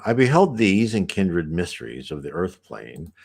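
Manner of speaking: book reading. A narrator's reading. Reads the book aloud.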